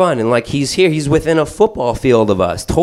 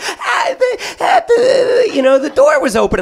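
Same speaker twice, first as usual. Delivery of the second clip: silly wife voice. Retold or imitated. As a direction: play the wife shrugging it off. Wife's sheepish excuse voiced.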